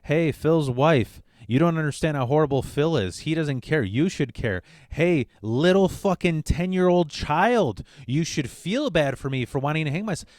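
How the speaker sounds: hammed-up mother pulling strings; manipulative mom. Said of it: "She's trying to pull our strings".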